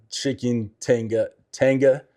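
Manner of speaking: "tanga" stressed on the first syllable, slow and unsure; wrong emphasis. Shown as a demonstration. Vlogger admitting the dish name sounds wrong. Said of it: "I'm putting the emphasis wrong".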